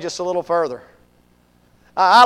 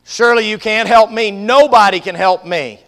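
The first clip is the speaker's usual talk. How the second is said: louder, insistent acted plea; mild desperate protest; 2 semitones higher, 5 dB louder than usual. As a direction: protest as if beyond all help. Tormented man protests hopelessly.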